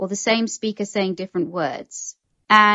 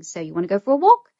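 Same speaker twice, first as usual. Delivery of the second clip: walk lifted upward at the end; rising question tune; faster than usual. Shown as a demonstration. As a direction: let "So you wanna go for a walk?" climb up on walk. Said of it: "it goes up at the end".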